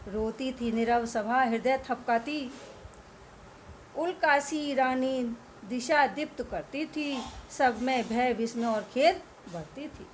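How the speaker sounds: slow, measured verse recital; poem recitation. Acted. Teacher reciting the night scene to students, slow verse. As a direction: read the lines like a solemn poem.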